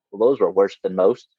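lightly attempted English accent; deadpan verdict in a mild English accent. Co-host quoting a golf commentator's quip, English accent. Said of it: "He in his English accent goes".

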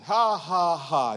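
evenly spoken "ha"s; deliberate forced laugh. Retold or imitated. Preacher retelling Hagin's laughing, plain forced ha-ha. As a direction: fake a laugh without mirth. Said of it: "I started laughing".

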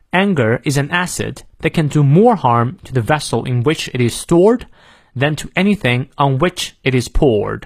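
American English with r sounded in "harm", "stored", "poured"; American model sentence for learners; American pronunciation. Shown as a demonstration. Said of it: "美式发音我们来过两遍".

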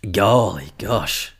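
slow, drawn-out "golly gosh"; quaint exclamation. Real, not acted. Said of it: "I sound like fucking Lewis Mocker".

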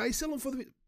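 high squeaky teasing question; mocking friend. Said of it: "o pessoal brinca".

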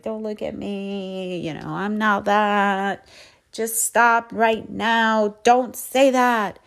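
panicked please stop; pleading to stop. Retold or imitated. Pushing compliments away, inner voice.

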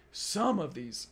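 drawn-out mock announcement; drill instructor announcing. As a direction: imitate an instructor addressing the whole bus. Drill instructor addresses the bus.

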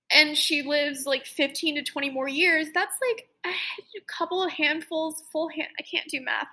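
high, strained voice on the edge of tears; holding back tears as she talks; real emotion rising in the voice; getting emotional. Real, not acted. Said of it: "I'm, like, getting emotional now".

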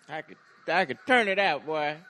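loud, boastful cookout uncle; booming tipsy uncle. Pretend. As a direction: brag like an uncle after a few drinks. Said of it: "You sound like somebody's uncle after his third cup of Hennessy".

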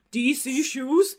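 mock-baffled question, stretched out; retold incredulity. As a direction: repeat it as if it were absurd. Retold disbelief at cousin's request.

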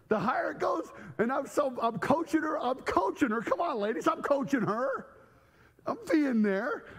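eager coaching. Retold or imitated. Acts out eager birth coaching.

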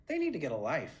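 Estelle impression. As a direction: tell the fans off with a wry shrug. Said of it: "she's like".

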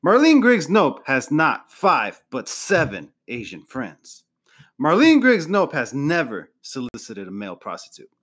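hyped speech pitch. Acted. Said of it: "and Tom says".

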